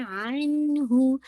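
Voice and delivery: अन्हु with the नून held smoothly, no bounce; correct recitation. Shown as a demonstration. Teacher modelling अन्हु for student. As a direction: hold the n of अन्हु without bouncing. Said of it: "नून पे ना bounce नहीं हो".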